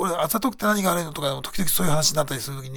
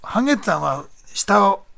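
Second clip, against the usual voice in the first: game character voice; 3 semitones higher, slower than usual. Acted. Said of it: "なんでそんな声してる？".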